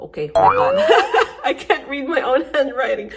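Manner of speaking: high, loud laughing voice; cracking up. Real, not acted. Journal reader stumped by own handwriting, cracking up. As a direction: laugh helplessly through the words.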